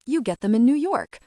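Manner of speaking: bright, quick and loud friend; a chirpy friend voice, fast; Suze voice. Acted.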